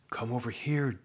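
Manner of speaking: soft, eerie voice at his ear; eerie whisper. Acted. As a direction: lure him in quietly. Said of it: "a voice whispered in his ear".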